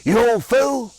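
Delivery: wife's fond rebuke to a prankster husband; affectionate scolding. Retold or imitated. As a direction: scold him lovingly, like an old wife. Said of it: "always affectionately said".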